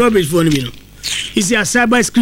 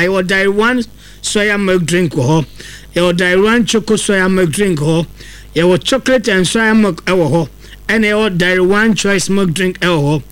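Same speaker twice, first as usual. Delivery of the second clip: radio ad read; 2 semitones lower than usual. Acted. Reads a live ad.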